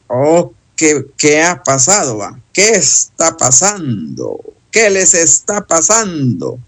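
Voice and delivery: mock astonishment in a low voice; understated shock, demonstrating an exclamation; astonished. Shown as a demonstration. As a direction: ask in mild disbelief what is happening. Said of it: "Así se pronuncia".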